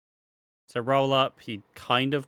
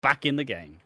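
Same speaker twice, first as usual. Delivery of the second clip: excited cheer; 3 semitones higher, 7 dB louder than usual. Retold or imitated. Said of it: "I was like".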